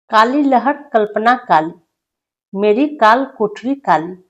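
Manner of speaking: poem recitation. Acted. Teacher reading a prisoner's poem aloud to students, declaiming. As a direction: recite each line with weight to the class.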